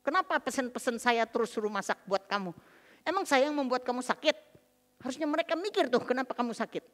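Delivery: mildly re-enacted nagging at a husband; a touch of angry wife; retold harsh scolding. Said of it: "Kalau lagi marah saya panggil namanya dengan kasar".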